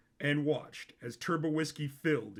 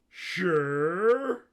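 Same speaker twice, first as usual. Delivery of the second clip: high Sisko voice; 4 semitones higher, 7 dB louder than usual. A narrator's reading. Sisko answers, high timbre.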